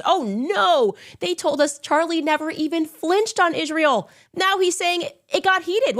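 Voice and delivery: high mocking voice; mocking their protest. Mocking critics who claim he never flinched, high mock voice. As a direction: parody their fake surprise. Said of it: "They were just".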